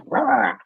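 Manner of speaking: breathy high little yap; whispered mock bark. Pug barking at the stove again, whispered high yap. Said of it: "he'd come back".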